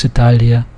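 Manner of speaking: Italia with a soft, palatal L. Shown as a demonstration. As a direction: let the L in Italia melt into the vowel. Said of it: "so it's a softer L".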